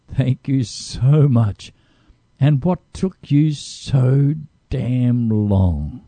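stretched slow, savoring each word; slow, earnest gratitude with a wry edge; slow heartfelt thanks. Retold or imitated. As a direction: draw it out like a grateful sigh. Soul thanks the brain, read quote.

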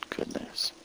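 breathy whispered repeat, barely audible. Shown as a demonstration. Preacher closing his sermon, whispering good news. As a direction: breathe it like a secret. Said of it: "repeated, second one whispered".

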